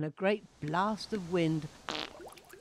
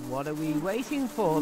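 chorusing flies; 4 dB louder than usual. A narrator's reading. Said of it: "they chorused".

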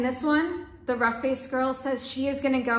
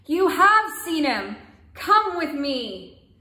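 delighted; 4 semitones higher, 6 dB louder, much slower than usual. Acted. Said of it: "cried the sister in wonder and delight".

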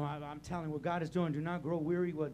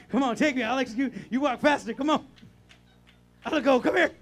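calling out to Alex; 6 semitones higher, 11 dB louder than usual. Real, not acted. Calling Alex over, laughing.

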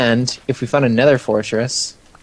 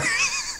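squeaky high laugh; 10 dB quieter than usual. Real, not acted. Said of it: "I don't know why I did that".

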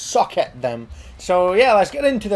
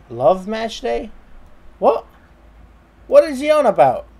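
incredulous; 2 semitones higher than usual. Real, not acted.

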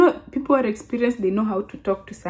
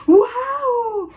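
very high, drawn-out mimicked amazement; gushing high-pitched put-on wow; slow-speaking lady; 13 semitones higher, slower than usual. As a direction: imitate a lady talking slowly to a foreigner. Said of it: "speaking slowly".

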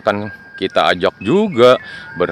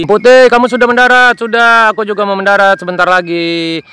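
excited little plane, pitched up high; high toy plane voice; 8 semitones higher, 4 dB louder than usual. Acted. Plane to plane in the sky, high and excited. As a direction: squeal with delight like a tiny plane.

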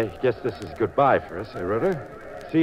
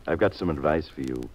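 low menacing warning; 8 semitones lower, 3 dB quieter than usual. Acted. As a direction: lean in and warn him off quietly. Thug threatens the detective.

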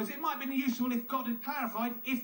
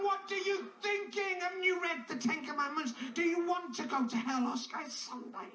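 scolding cat owner; 5 semitones higher than usual. Retold or imitated.

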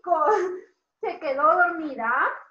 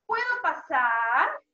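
drawn-out rising request; polite asking; slower than usual. Shown as a demonstration. Teacher models asking permission to enter, slow polite question. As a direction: stretch it out politely.

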